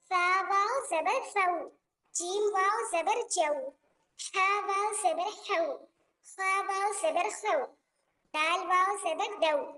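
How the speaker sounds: slow sing-song letter-by-letter spelling; slow spelling recitation. Shown as a demonstration. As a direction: chant each letter then join it, slowly. Chanted qaida spelling drill.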